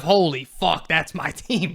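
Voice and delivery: deflated, half-laughing exclamation with a rising end; resigned disbelief. Shown as a demonstration. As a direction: say it like the team embarrasses you. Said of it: "it's a totally different vibe".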